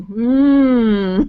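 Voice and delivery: long drawn-out pondering hum; mock pondering. Host stumped by a viewer's question, mock pondering.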